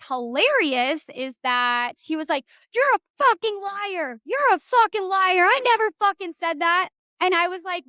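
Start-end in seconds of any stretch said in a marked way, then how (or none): 2.7-6.9 higher-pitched retold outburst; mock angry accusation. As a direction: imitate his indignant denial, leaning on the words. Acted retort in retold quarrel.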